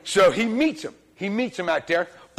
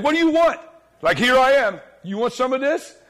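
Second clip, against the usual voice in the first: mock tough-guy challenge, pitched up; cocky challenge; 4 semitones higher than usual. Preacher voices Jehu to congregation, cocky challenge. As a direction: act out a man daring anyone to try him. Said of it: "cut your throat as look at you".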